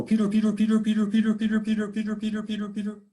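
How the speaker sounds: high birdcall dying away; cardinal song. Retold or imitated. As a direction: mimic the cardinal, trailing off at the end. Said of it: "Where a cardinal will go".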